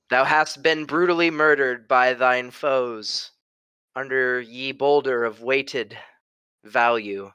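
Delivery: slow, solemn mock Shakespearean lament; Shakespearean monologue. Asked for Margot's death scene, a slow mock Shakespearean eulogy. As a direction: mourn her in grand old English, slowly. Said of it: "a Shakespearean monologue".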